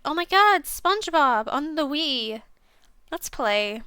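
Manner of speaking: imitating an excited kid, the start shouted high; gushing mock-childish glee, drawing out SpongeBob. As a kid begging her cousin to play, mock excited.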